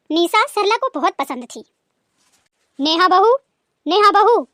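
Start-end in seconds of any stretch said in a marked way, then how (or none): 2.8-3.4 loud call across the house. Acted. Mother-in-law calling daughter-in-law. 3.9-4.4 louder, higher impatient second call. Acted. Mother-in-law calls again, louder.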